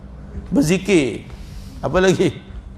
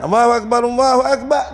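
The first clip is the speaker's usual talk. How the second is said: mock child azan; 4 semitones higher than usual. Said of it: "Budak azan".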